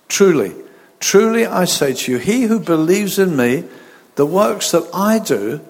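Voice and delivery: measured, solemn Bible reading; scripture reading. Acted. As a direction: read the verses with weight and pauses. Reads scripture aloud.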